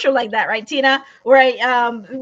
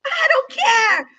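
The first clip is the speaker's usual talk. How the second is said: high, slow, laughing yell of I don't care; laughing mock yell; defiant shout; 12 semitones higher, 5 dB louder, slower than usual. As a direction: toss it off as a hot-headed shout through a laugh. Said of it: "somebody in the moment would say".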